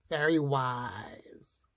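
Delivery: slow hushed whisper; a slow, secret whisper. A narrator's reading. Wizard uncle described mysteriously.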